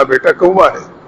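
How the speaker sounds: a father patiently telling his little son it is a crow, lovingly. Retold or imitated. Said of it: "میں نے بڑے پیار سے کہا".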